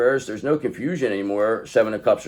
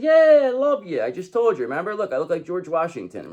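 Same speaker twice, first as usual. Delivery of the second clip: playful King of Cups voice; 5 semitones higher than usual. Retold or imitated. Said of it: "He said".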